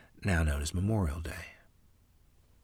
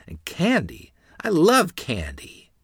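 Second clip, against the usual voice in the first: put-on little girl voice; 11 semitones higher, 8 dB louder, slower than usual. A narrator's reading. Small child asking for candy.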